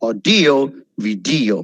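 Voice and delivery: Audio, video each peaking on "DEE"; second-syllable stress. Shown as a demonstration. Teacher repeating Audio, video, second-syllable emphasis. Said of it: "emphasize കൊടുക്കണം".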